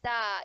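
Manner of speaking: "막다" said softly as [막따], the ㄱ sounded without ㄹ; demonstrated pronunciation. Shown as a demonstration. Teacher showing how 맑다 sounds, "막다" articulated as 막따. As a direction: stretch "막다" into 막-따, careful and soft. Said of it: "이렇게 소리가 나는 겁니다".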